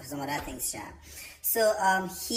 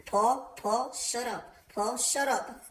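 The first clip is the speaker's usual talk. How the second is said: urgent hush; 8 semitones higher, much slower than usual. Retold or imitated. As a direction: hiss at him to shut up in church. Aunt hushing Paul in church.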